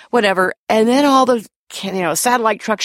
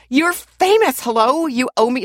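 higher-pitched mock indignation; mad; 5 semitones higher, slower than usual. Fan scolding a reluctant celebrity over an autograph, mock mad. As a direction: retell her scolding with raised pitch. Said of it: "got mad at me".

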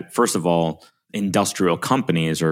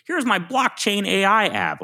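very high, slow, hammed-up pitch voice; mock salesman; slower than usual. Mocking a vendor pitching buzzwords, very high hammed-up voice. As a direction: ham up an eager vendor.

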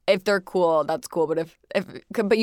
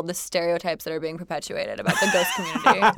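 mock outrage. Real, not acted. Mock outrage about ghost stereotypes.

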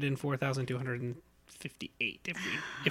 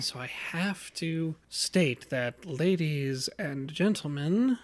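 slow announcer voice; slower than usual. Shown as a demonstration. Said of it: "I think you actually have to do it".

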